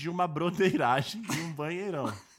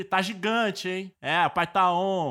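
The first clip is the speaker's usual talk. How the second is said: bro voice; 4 dB louder, slower than usual. Retold or imitated. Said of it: "é sempre".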